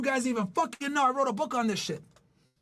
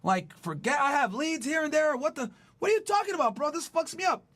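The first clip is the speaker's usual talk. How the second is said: mock-baffled protest, pitched up; incredulous objection; 2 semitones higher than usual. A listener challenges the coach's counterintuitive advice, incredulous. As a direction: act out an exasperated listener pushing back.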